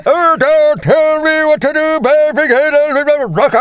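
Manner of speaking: very high, slow cartoon screech; imitated quarrelling character. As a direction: wail back high and drawn out. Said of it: "he's just like, papers are flying".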